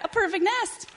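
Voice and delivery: high, loud goose exclamation; excited cry. Acted. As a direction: holler it, pitch soaring. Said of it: "she cried".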